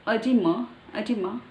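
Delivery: EDEMA starting on a weak "uh"; American pronunciation. Shown as a demonstration. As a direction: say EDEMA as "uh-DEE-muh". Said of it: "It's American".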